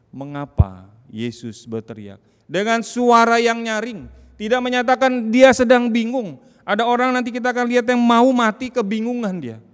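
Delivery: loud, high sermon climax; rising pulpit fervor, fast; fiery preaching. Acted. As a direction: preach it out at full force. Preacher building to full force.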